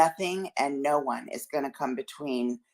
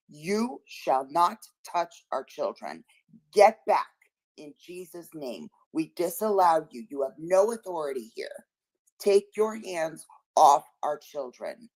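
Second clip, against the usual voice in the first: warrior cry; 2 semitones higher than usual. Acted. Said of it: "That's our warrior cry".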